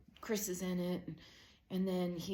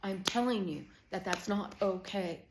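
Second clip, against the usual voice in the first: mildly heated, emphatic denial; insistent denial; 3 dB louder than usual. Retold or imitated. Mom answering her kids' complaint, insistent. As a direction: insist on it, stressing each point. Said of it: "You're always yelling".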